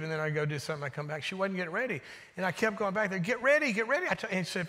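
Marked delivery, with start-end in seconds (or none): 3.2-4.1 higher-pitched, mildly frustrated nagging; retold parental frustration. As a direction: imitate a parent repeating an order. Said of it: "I'm getting frustrated".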